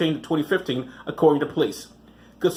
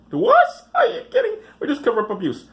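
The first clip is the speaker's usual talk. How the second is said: sneering send-up of the camp's denial; mock camp official; 11 semitones higher than usual. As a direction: parody the denial in a whiny high voice. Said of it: "mock official continues".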